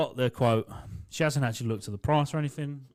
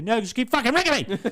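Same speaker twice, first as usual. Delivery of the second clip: higher, laughing sarcastic comeback; mock retort; 9 semitones higher, 4 dB louder than usual. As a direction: tease her while laughing.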